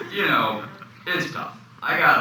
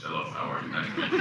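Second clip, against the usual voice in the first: lightly imitated low anchorman voice; a hint of a low-pitched news anchor; anchorman father; 5 semitones lower, 5 dB quieter than usual. Son imitating his anchorman father's greeting, lightly put on. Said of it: "My dad talks like this".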